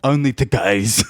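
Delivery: comic deep voice, slow; hammed-up deep British deadpan answer; a singer. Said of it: "I have to do it in a deep voice".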